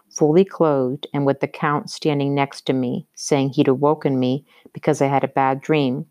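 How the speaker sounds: measured, deliberate novel reading; story narration. A narrator's reading. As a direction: read it aloud like an audiobook. Reads the novel aloud.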